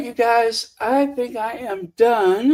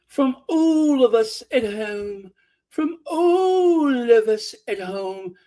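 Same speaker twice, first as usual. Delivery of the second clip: squeezed-out posh imitation; 3 semitones higher than usual. Mocking a woman trying to sound ritzy, squeezed out. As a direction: squeeze the words out, mock-ritzy. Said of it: "she has to squeeze those words out".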